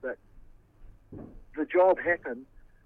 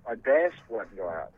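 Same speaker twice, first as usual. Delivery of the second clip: slow, louder disbelieving question; incredulous echo; 3 semitones lower, 5 dB louder, slower than usual. Real, not acted. Accused man questioning the claim he bashed someone, incredulous. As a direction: throw the accusation back, drawn out.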